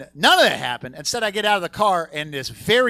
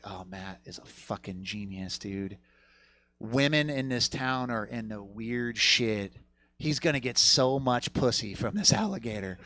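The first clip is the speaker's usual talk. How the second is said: dawning realization; 3 semitones lower than usual. Retold or imitated. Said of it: "I was like".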